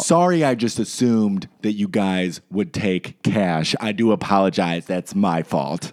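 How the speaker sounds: mock polite apology.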